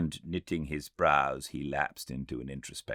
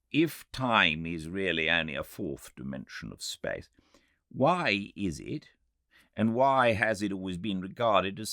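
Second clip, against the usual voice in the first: raised, questioning voice of a sceptical doctor; medical man objecting; 6 semitones higher than usual. A narrator's reading. Medical man challenging the time traveller, raised sceptical voice. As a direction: press the doubt as the medical man, pitched up.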